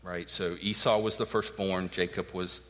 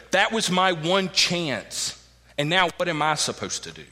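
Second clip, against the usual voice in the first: desperate Reuben; 8 semitones higher, 6 dB louder than usual. Acted. Voicing Reuben's despair.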